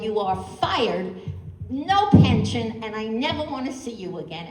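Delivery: hammed-up indignant boss firing someone; mad and angry. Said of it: "you were so mad and angry".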